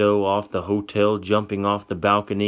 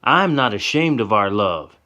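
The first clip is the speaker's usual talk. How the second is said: high, loud pushback, defiant; louder, hurt defiance; screaming back; 5 semitones higher, 5 dB louder than usual. Acted. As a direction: throw it back at him. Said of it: "she screams back".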